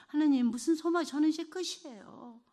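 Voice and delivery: loud, high anguished cry to God. Retold or imitated. Grieving mother crying out to God in the night, anguished loud wail. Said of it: "제가 울부짖었습니다".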